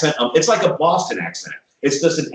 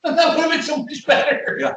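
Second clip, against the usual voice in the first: delighted laughing outburst; 13 semitones higher than usual. Real, not acted. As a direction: crack up mid-sentence.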